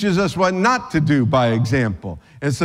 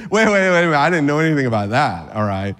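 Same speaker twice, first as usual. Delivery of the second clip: flustered Peter; 3 dB louder, faster than usual. Acted. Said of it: "you can hear Peter say".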